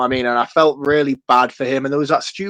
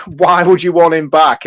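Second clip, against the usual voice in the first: dismissive, mocking quote of the question; quoting the villain; 5 dB louder than usual. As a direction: read the villain's line with disdain. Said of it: "but even just to be like".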